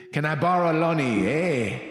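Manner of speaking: lightly voiced Canadian, eh; mild Canadian accent. A narrator's reading. Reading Cesar's line in a light Canadian accent. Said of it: "Cesar starts to talk in a French accent".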